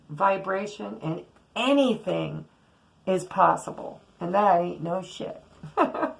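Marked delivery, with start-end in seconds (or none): 5.6-6.1 laughing. Real, not acted. Laughs mid-word.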